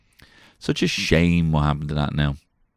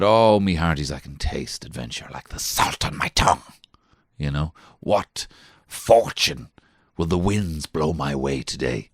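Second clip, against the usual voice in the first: pirate voice; slower than usual. Acted. Dad voices Santiago the pirate.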